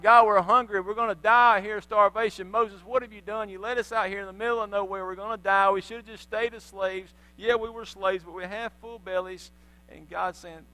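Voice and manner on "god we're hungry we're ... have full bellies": loud, panicky grumbling about dying; crying out in complaint. Acted. Hungry Israelites crying out to God, loud complaint. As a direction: gripe like hungry people blaming Moses. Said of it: "They start crying out to God".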